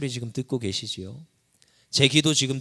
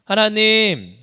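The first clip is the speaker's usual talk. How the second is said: crying out to God; 8 semitones higher, 8 dB louder, much slower than usual. Acted. Preacher voices David's cry again.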